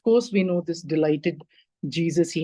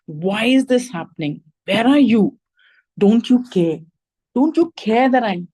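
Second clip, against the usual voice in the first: insistent, louder pleading questions, mildly acted; mock shout at God; 4 semitones higher, 4 dB louder than usual. Like the disciples in the storm, shouting at God in mild imitation. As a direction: cry out at God, without a full scream. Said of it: "scream our lungs out and shout at God".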